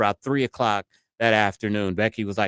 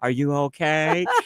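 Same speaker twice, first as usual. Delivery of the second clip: put-on calm, unbothered southern accent, pitched up; 5 semitones higher than usual. Laughing about the lady's reply to the package thief: imitating a calm southern accent. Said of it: "her calm southern voice".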